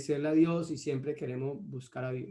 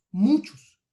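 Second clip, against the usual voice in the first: "Muchos" repeated alone, higher and louder; stress on "Muchos"; 6 semitones higher, 7 dB louder than usual. Real, not acted. Preacher repeating the verse's key word to the congregation, stressing "Muchos". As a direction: punch out "Muchos" as a word on its own. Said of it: "Y enfatizo en la palabra muchos".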